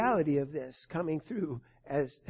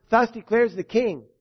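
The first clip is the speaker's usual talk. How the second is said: higher and louder, a herald's cry; loud proclamation; 3 semitones higher, 4 dB louder than usual. Acted. Rabshakeh crying out to the people of Jerusalem, loud proclamation. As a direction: call out to the walls of the city. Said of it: "Rabshakeh cried with a loud voice".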